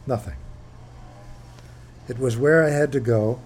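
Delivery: measured book reading voice; reading aloud. Acted. Author reading chapter one to an audience, measured. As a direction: read it like opening a memoir.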